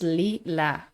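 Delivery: "lila" said as LEE-lah; two pure vowels in "lila", lee-lah; Spanish pronunciation. Shown as a demonstration. Giving the Spanish for lilac, "lila" as LEE-lah. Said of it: "In Spanish, it's".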